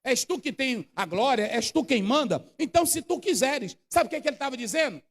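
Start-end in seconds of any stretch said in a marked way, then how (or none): none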